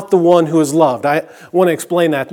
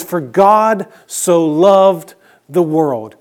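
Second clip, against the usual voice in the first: slow, measured quote of the verse; slow reading; much slower than usual. Shown as a demonstration. Pastor reading the familiar verse order slowly to the congregation. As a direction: read the verse slowly, word by word. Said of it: "It actually says".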